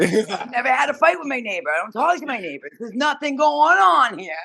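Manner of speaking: high re-enacted insistence; pleading protest. Teller assures neighbours with knives, high pleading protest. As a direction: insist high that all is peaceful.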